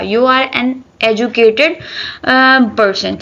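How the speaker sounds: "You are an educated person" read out very slowly; slow dictation. Shown as a demonstration. Teacher slowly dictating an example sentence to the class. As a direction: dictate it word by word.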